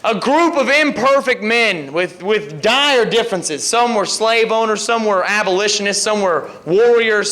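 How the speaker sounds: rousing campaign speech; rally speech. Real, not acted. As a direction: address the crowd with conviction. Politician addressing a rally crowd.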